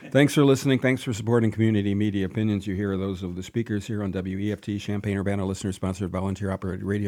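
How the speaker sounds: fast, smooth station ID read; radio announcer voice. Acted. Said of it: "Do I sound like an announcer?".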